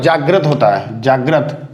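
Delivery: जागृत said slowly with a plain र sound, not री; slow careful जागृत; correct pronunciation. Shown as a demonstration. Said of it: "लेकिन क्या होता है?".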